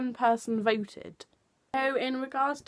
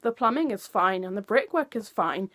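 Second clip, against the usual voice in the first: mock exasperated builder; 4 semitones higher, 6 dB louder than usual. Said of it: "your response is".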